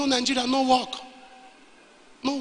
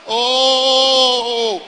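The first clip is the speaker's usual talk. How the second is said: higher, louder startled oh of recognition; shocked cry; 3 semitones higher, 5 dB louder than usual. Retold or imitated. Gunman recognising the pastor, crying out in shock. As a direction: let it burst out in dismay.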